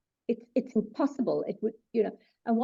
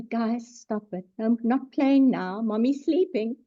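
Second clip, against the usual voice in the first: soft scolding; slower than usual. Retold or imitated. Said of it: "normally I say".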